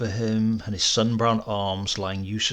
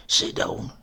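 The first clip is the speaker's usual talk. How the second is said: weary. A narrator's reading. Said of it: "his voice so weary that I hardly recognized it".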